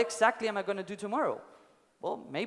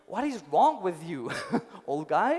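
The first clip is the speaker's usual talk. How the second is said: laughing through an incredulous question; amused mock outrage; laughing disbelief. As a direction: laugh as you ask it. Apprentice reacting to absurd answer.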